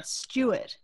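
Stuart said stjuət, R dropped; Australian Stuart, stjuət. Shown as a demonstration. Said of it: "There's a U in there".

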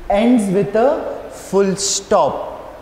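drawn out slowly, each word stressed for the class; slow, emphatic. Shown as a demonstration. Teacher stressing the rule to pupils, slow and deliberate. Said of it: "these are few things to remember".

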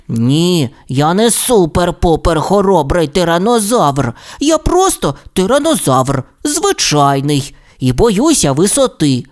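mild protest, emphatic and uneven; a touch of exasperated confession; crying out. Acted. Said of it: "крикнув Расмус".

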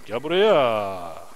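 slow, low drawn-out gel buraya; mock deep voice. Calling the animal over, slow low put-on voice. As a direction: drag it out in a spooky low voice. Calls a horse in odd voice.

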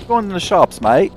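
put-on drunk Aussie accent. Joking with his teammate in a drunk Australian accent. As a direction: slur it like a tipsy Aussie bloke. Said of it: "It's always the drunk Aussie that comes out".

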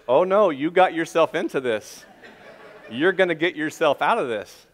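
quoting his wife through laughter; laughing. Retold or imitated. Wife laughing at her husband, amused and teasing. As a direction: chuckle through the words, teasing. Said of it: "She starts laughing at me".

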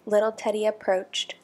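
measured picture-book storytelling; story narration. A narrator's reading. Narrator reads a puppy picture book aloud, storybook narration. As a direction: read clearly to children, with careful pauses.

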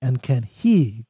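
slow, deliberate rereading; poem reading. Acted. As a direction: dwell on each word. Rereads stanza slowly.

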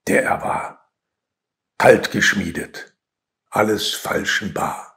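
subdued verse with long pauses; measured, understated poem reading; poetry recitation. Acted. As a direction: recite in short, separate phrases.

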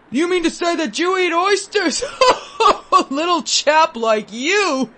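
high, laughing disbelief; a gentleman chuckling at a little boy; amused laughing gentleman. Acted. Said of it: "I heard laughter".

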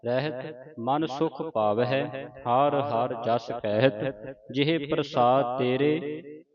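slow, measured verse reading; scripture recitation. Shown as a demonstration. Teacher recites the ashtpadi for students to follow, slow recitation. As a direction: stretch the vowels and pause after each phrase.

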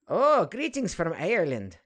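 bad Irish accent, high and loud; hammy fake Irish greeting. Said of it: "That was really bad Irish accent".

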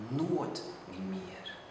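slow, soft, drawn-out raven voice; raven's answer. Acted. The raven answering the poet, slow and soft. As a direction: let the raven toll it slowly and softly. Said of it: "Toen sprak die vogel".

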